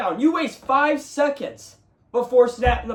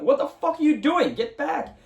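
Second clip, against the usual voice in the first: mock yell at the TV; 7 semitones higher than usual. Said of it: "I was starting to yell at the T V".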